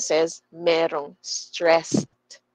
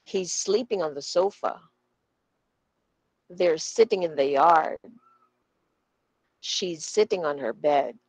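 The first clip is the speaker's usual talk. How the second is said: "on the", "in the", "on her" quick and light between stressed words; quick unstressed words. Shown as a demonstration. Teacher showing unstressed words, "on the" and "on her" said quickly. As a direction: hurry lightly through "on the", lean on "sleeping" and "sofa". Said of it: "Ang bilis nung on the".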